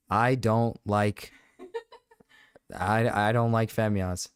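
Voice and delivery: talking while crunching chips. Real, not acted. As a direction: mouth full of crunchy chips. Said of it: "Can you hear me crunch my Cheetos?".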